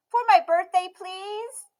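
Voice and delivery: put-on high, loud pleading little girl; a child pleading with Grandma; begging Emmy. A narrator's reading. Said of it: "begged Emmy".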